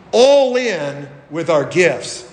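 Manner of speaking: slow, leaned-on "all in"; stress on all in. Shown as a demonstration. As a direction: press down on "all in" and draw it out. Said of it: "I emphasize that word all in".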